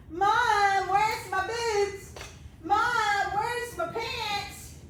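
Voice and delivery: calling out to Mom, slow and drawn out; a kid hollering for Mom from another room; yelling across the room. Retold or imitated. Kids calling for mom at home.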